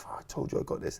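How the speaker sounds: near-whispered, soft insistence; hushed protest. Retold or imitated. Guest telling host it's handled, hushed. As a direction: say it under your breath to the host. Retold aside to the show host.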